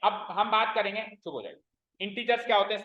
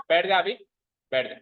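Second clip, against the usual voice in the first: sharp, louder command to sit down; stern order; 3 semitones lower, 5 dB louder than usual. Real, not acted. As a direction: tell the student firmly to sit. Teacher tells student sit down. (छात्र को डाँटकर बैठने को कहना, ज़ोर से)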